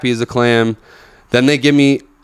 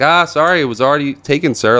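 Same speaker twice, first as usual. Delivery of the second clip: dismissive; 4 semitones higher than usual. Retold or imitated. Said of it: "she's already like".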